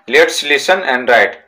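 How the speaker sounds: each word slow and separate for the class; slow reading aloud. Shown as a demonstration. Teacher dictating a textbook sentence to pupils, slow and deliberate. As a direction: read it out slowly so pupils can write it down.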